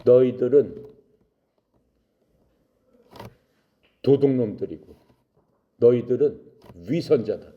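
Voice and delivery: understated angry scolding; denouncing. Acted. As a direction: denounce them in firm, separated phrases. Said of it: "욕을 했어요".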